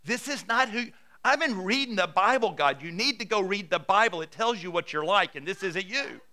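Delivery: mock-exasperated prayer of protest; exasperated complaint to God. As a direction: argue with God as if he needs setting straight. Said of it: "goes on and on and on saying, God".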